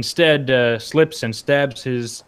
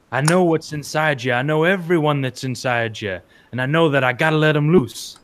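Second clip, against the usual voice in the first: higher, coaxing villain; 5 semitones higher, 3 dB louder than usual. Acted. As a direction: tempt her like a dark lord. GM voices the villain Nasturiel.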